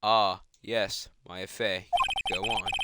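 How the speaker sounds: lightly voiced low, guarded elder; a hint of a weighty old boss; reserved senior lawyer. Senior lawyer hearing out a young visitor, lightly guarded.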